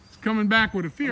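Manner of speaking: breathless after pruning; winded, pushing words out; out of breath. Real, not acted. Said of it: "I'm out of breath".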